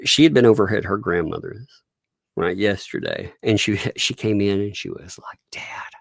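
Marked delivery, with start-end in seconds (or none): 5.5-5.9 put-on hushed, grave little-kid delivery; softly, as if breaking serious news; imitating a solemn child. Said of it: "she was very serious too".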